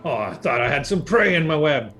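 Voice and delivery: lightly voiced chatty spider; a hint of a creature voice; spider character. Spider explains itself to the party, lightly voiced creature.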